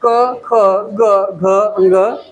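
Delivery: क, ख, ग, घ, अंग each as a separate beat; reciting Hindi consonants. Shown as a demonstration. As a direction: alphabet drill, क to अंग, evenly spaced. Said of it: "व्यंजन क से ज्ञा".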